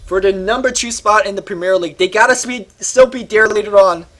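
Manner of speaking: winded after a long shout; out of breath. Real, not acted. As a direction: catch your breath between words. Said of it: "I am completely out of breath".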